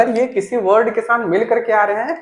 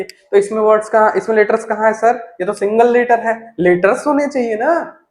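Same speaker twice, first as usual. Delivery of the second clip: student objecting; 2 semitones higher, 4 dB louder than usual. Pretend.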